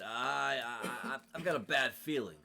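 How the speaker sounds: a guard who can't get the words out for nerves; stammering nervous guard. Acted.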